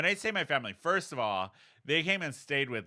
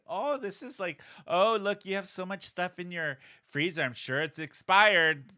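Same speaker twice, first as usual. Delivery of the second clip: high, sugary mock disapproval; mock the mother's passive jabs, higher; passive-aggressive; 5 semitones higher than usual. Mom judging the freezer, high passive-aggressive. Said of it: "very passively".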